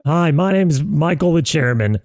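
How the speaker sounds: slow, drawn-out hype intro. Shown as a demonstration. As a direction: show him how to announce it. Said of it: "I'll do it for you".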